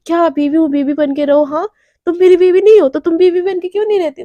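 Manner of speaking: flaring up, mocking his order then shouting back; angry retort. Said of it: "उसको भी गुस्सा आ जाता है".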